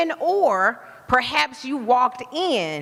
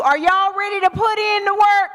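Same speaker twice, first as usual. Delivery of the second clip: "work" pushed louder, rallying the room; louder repeat; 9 semitones higher, 5 dB louder than usual. Real, not acted. Speaker asking the crowd again after a "No", louder rally.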